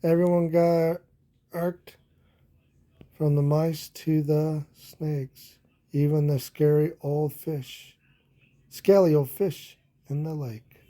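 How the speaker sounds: lively storybook read-aloud; animated children's story narration. Acted. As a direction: read it like a bedtime picture book. Reading picture book aloud.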